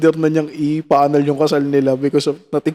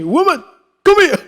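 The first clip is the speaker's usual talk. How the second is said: imitating Aris Pierce; 12 semitones higher than usual. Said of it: "Aris Pierce din yun".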